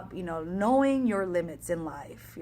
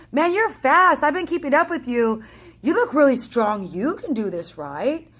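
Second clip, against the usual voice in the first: 1 excited praise; 5 semitones higher, 6 dB louder than usual. Retold or imitated. Runner flatters her mid-race.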